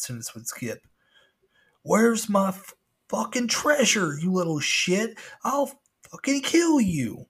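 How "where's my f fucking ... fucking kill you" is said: high, slow, loud furious screech; screaming pirate animatronic. Retold or imitated. Angry animatronic pirate screaming at the boy. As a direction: shriek threats like a broken robot pirate.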